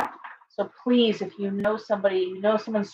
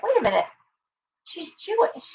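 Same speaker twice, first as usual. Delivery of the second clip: high mock realization; 9 semitones higher than usual. Friend voiced, retold episode.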